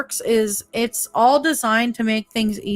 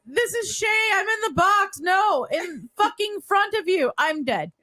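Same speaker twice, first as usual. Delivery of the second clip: higher, voicing the dead man in a mock Irish accent; 11 semitones higher than usual. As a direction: shout from the coffin in a put-on Irish voice. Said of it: "In an Irish accent".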